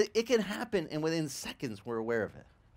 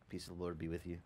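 soft churchy murmur; 9 semitones lower, 12 dB quieter, faster than usual. Retold or imitated. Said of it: "they're all so nice inside".

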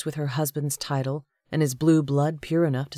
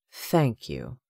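low, curt thanks; terse; 5 semitones lower than usual. A narrator's reading. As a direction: give the minimum courtesy, pitched low. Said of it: "he said tersely".

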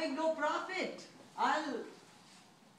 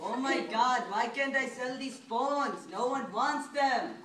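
put-on Indian accent; 2 semitones lower than usual. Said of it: "Talk in your Indian accent".

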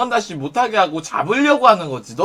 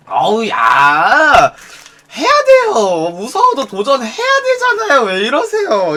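hammed-up loud, high-pitched playful exclamation; exaggerated mock-outraged encouragement; jokey protest; 4 semitones higher, 5 dB louder, slower than usual. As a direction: play it as a big joke, squealing up high. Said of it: "진짜 장난처럼 넘어가요".

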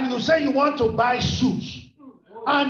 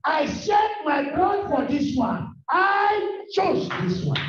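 Jesus rebuking; 5 semitones higher, slower than usual. Acted. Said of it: "And Jesus said".

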